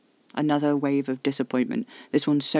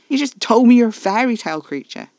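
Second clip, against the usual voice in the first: high, loud incredulous scoff; 9 semitones higher, 10 dB louder than usual. A narrator's reading. Narrator mocking Caspar's vampire claim, loudly scoffing. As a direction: raise voice and pitch in scornful disbelief. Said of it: "I scoffed".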